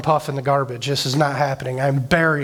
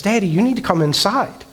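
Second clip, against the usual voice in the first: higher, lightly voiced little daughter; imitated child's plea; 4 semitones higher than usual. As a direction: imitate a child calling Daddy back in. Daughter repeats her call, retold.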